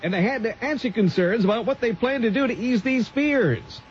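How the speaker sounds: formal radio news voice, a touch pompous; mock newscaster read. Host reading a spoof city desk news bulletin, newscaster style. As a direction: read it like a stuffy old-time news bulletin.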